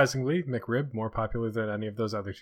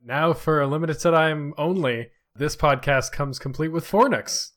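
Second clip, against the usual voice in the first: punchy announcer pitch, louder; hard sell ad; 3 semitones higher, 6 dB louder than usual. Pretend. Mock limited-time ad pitch.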